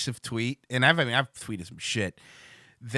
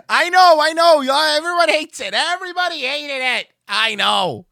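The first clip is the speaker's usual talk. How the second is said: exasperated high protest; 12 semitones higher, 7 dB louder than usual. Real, not acted. Anticipating backlash.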